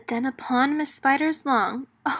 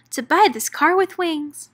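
begging; 6 semitones higher, 5 dB louder than usual. Acted. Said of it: "Meg Malfly begged".

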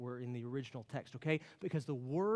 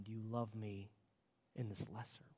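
softer, fading into a whisper; hushed question; 6 semitones lower, 10 dB quieter than usual. Acted. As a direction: let the last words fall to a whisper. Jesus' lesser question, hushed.

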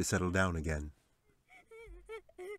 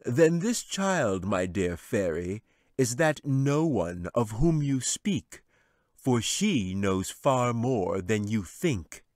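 slow, louder, knowing wizard voice; clever wizard; 3 semitones higher, 6 dB louder, slower than usual. A narrator's reading. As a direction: draw each phrase out like a sly old wizard. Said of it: "The wizard smiled cleverly".

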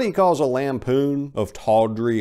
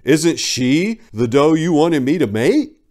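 mild stern son; 3 semitones higher, 4 dB louder than usual. Acted. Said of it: "addressed his father sternly".

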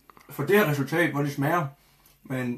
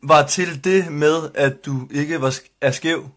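slow, word-by-word read-out; reading a comment aloud; 4 dB louder, much slower than usual. Real, not acted. Reading a viewer's comment to his co-host, slow deliberate read-out. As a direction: spell out a puzzling message, phrase by phrase.

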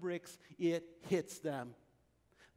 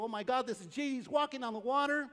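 amazed gasp; 6 semitones higher, 3 dB louder than usual. Retold or imitated. Disciples stunned seeing Jesus.

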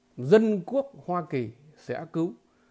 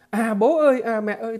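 higher, louder cry of "bố ơi"; mock yell for help; 4 semitones higher, 5 dB louder than usual. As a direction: call out to the family in alarm, half-acted. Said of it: "bà phải hét lên". (giả giọng hét cầu cứu)

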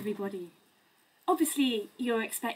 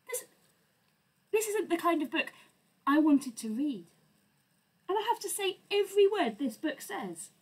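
exasperated; 4 semitones higher than usual. Acted. Reader protests the book.

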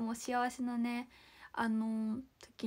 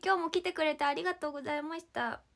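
ordinary delivery

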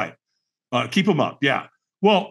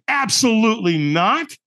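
slow, higher-pitched firm refusal; emphatic refusal; 6 semitones higher than usual. Retold or imitated. Man turning down a stranger's firewalk invitation, slow emphatic refusal. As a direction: draw out a definite no. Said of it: "I said it with that tonality".

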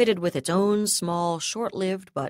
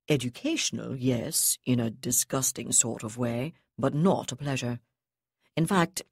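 disdainful officer; 3 semitones lower than usual. Acted. Terekhov cold disdain.

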